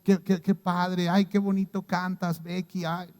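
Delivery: lightly voiced smug show-off; a hint of preening self-praise; mock boasting. Church members praising themselves, mild mock vanity. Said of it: "No es para que presumamos".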